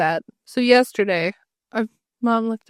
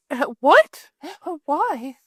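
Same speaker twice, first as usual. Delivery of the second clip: imitating a shocked mother, a gasp before the why; mortified; 5 semitones higher, much slower than usual. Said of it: "she was mortified".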